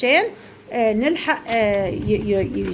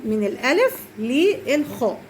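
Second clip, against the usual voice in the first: slow teaching read; slower than usual. Shown as a demonstration. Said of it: "نوري أصحابنا إحنا راجعنا إيه الأول".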